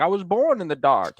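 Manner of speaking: lightly voiced movie villain, pitched well up; a hint of theatrical supervillain; Bane impression. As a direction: put on a villain's accent for the quote. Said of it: "that was a good accent".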